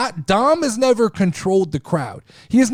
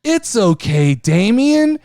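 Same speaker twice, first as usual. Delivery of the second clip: imitating Dom; 3 semitones lower, slower than usual. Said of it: "Dom literally goes".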